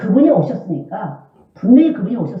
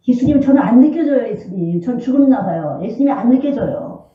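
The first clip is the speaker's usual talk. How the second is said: raised, pleading cry to God; pleading prayer demo; 4 semitones higher than usual. Shown as a demonstration. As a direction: beg like a desperate child. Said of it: "이렇게 하세요".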